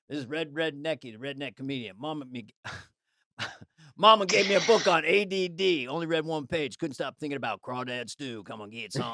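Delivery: redneck comedian. Acted. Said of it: "I addendum on that".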